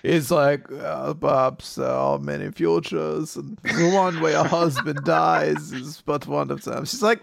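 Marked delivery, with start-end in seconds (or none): 0.7-6.8 faintly deeper dog musing on fate; big lumpy dog voice. Acted. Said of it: "why did you choose that voice for it".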